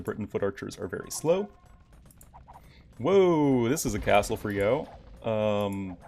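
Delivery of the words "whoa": ordinary talk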